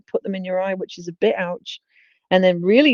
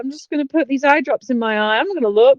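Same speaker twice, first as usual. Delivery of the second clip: dumb patient voice; 7 semitones higher, 4 dB louder than usual. Retold or imitated.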